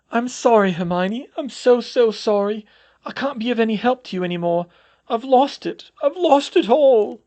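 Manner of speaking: high, loud, breaking with tears; a broken teacher sobbing to her student; tearful. Acted. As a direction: sob out the apology. Sobbing teacher confesses to Hermione.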